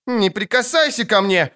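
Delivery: put-on high-pitched girlish squeal. A narrator's reading. Girl refuses Geralt's touch, squealing. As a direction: shriek high without much extra volume. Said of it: "взвизгнула она".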